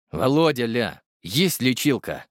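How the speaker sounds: slow, lightly voiced stern father; father's voice. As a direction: repeat it slowly, like his father. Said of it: "повторил я голосом отца".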